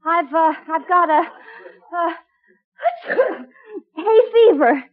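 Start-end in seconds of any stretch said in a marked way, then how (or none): 2.8-3.4 quick high pretend sneeze; fake sneeze. Wife covering for hidden husband, fake sneeze. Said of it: "I, I just sneezed".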